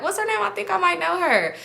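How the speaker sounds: way up high and eager; squeaky nosy guy voice; high-pitched eager voice. Retold or imitated. Guy eagerly asking sister's name.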